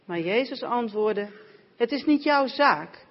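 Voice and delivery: measured, even Bible reading; scripture reading. Acted. Reader reading John 21 aloud to the congregation, measured scripture reading. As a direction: read the gospel passage aloud to the church.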